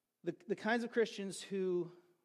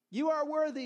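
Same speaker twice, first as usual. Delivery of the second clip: high, raised hail; herald's acclamation; 5 semitones higher than usual. Acted. Heralds hailing the emperor once more, proclaimed aloud. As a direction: call it out as praise. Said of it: "they would yell out".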